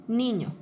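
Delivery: "Niño" stressed on the first syllable. Shown as a demonstration. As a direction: lean on "Ni" in "Niño". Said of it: "la palabra niño lleva el acento en". ("Niño" con acento en la sílaba "ni")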